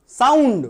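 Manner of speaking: साउंड stretched out slowly; drawn-out syllables. Shown as a demonstration. Teacher showing students the syllables, साउंड said long and drawn out. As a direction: draw साउंड out to show its parts. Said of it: "दो syllable हो गया".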